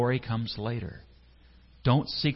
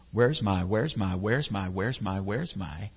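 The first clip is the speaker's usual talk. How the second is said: fading whine; 3 semitones lower, slower than usual. Acted. Fleshly motive repeating, fading.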